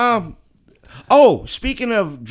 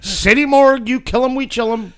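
phone greeting bit; 8 semitones higher, 5 dB louder than usual. Pretend.

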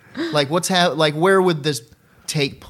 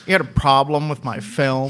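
lower, lightly put-on filmmaker voice; John Waters, unruffled; 4 semitones lower than usual. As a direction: challenge coolly as an unbothered director. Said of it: "It's a pretty good one".

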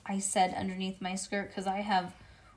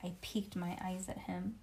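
ordinary delivery

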